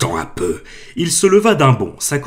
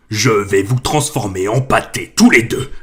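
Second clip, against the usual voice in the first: threatening; 5 dB louder than usual. Acted. Giant threatens the Dursleys.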